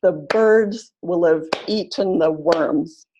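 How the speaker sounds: "will have" squeezed to a quick "will'v" between stressed beats; natural-speed run-through, unstressed words reduced; teacher showing connected speech; normal speed. Shown as a demonstration. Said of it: "at a normal speed".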